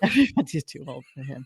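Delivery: amused, said through real laughter; laughing. Real, not acted. Co-host answers a joke about aging idols, laughing.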